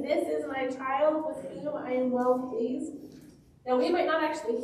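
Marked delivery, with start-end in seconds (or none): 0.0-2.9 voice of God. Retold or imitated. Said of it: "You heard a voice from God saying".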